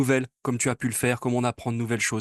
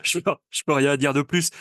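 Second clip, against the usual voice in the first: repeats it through a laugh; amused, laughing over the words; 3 dB louder than usual. Real, not acted. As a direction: chuckle while saying it. Laughing repeat after her answer.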